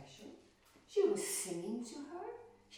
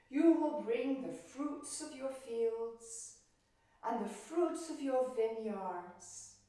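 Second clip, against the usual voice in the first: goddess commanding; 5 dB louder than usual. Acted. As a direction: lay down the law gravely. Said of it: "And Demeter said".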